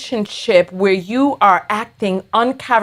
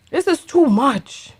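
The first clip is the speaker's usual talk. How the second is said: subdued exasperation; 3 semitones higher than usual. Real, not acted. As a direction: repeat "This is too much" as a deflated aside. Same words repeated, softer and lower.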